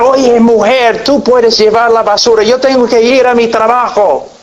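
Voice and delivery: an annoyed husband barking back; mock angry yell. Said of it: "comienza a gritar".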